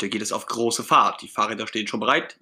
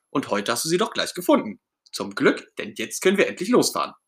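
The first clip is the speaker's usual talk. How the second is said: raised, pleading justification; a touch of desperation, pitched up; desperate Ernie; 4 semitones higher than usual. Acted. Ernie explaining the luggage rack to Bert, mildly desperate. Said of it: "Ernie ist schon ganz verzweifelt".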